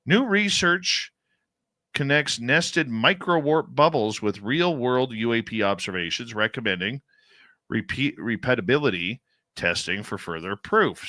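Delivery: emphatic breaking-news headline read. Real, not acted. Host reading UFO study news to co-host, news read. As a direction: read out the headline with measured punch. I'm gonna read this to you.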